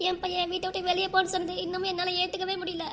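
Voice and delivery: high, thin tearful wail; weeping lament, pitch held high; acted crying. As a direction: sob out the disbelief in one long breath. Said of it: "இன்னும் அழுதுட்டு இருந்தா".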